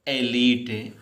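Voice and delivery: एलीट as e-leet, long ee; pronunciation demo. Shown as a demonstration. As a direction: model एलीट clearly for students. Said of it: "क्या पढ़ोगे इसे". (एलीट का सही उच्चारण, ए-लीट)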